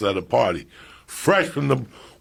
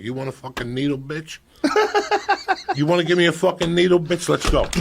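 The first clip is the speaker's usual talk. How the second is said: dares the nurse with the needle, mock fury rising; retold angry challenge; 2 semitones higher than usual. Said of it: "I got so mad".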